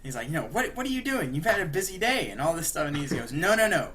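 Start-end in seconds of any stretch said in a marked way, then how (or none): 0.5-2.3 scared, pleading villain, pitched high; mock nervous placating, much higher and louder; hammed-up panicky stalling; Joker. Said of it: "now Joker's scared". 3.3-3.9 higher, louder retold protest; mock emphatic refusal; firm refusal. Charlie refuses scared Joker's pleading.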